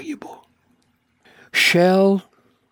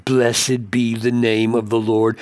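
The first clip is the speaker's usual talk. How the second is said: sarcastic. Retold or imitated. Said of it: "used ironically or cynically".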